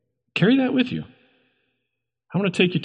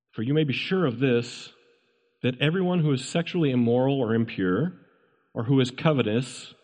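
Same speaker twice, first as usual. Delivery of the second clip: scripture reading. Real, not acted. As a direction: read the verse solemnly, in separated phrases. Reads scripture aloud to congregation.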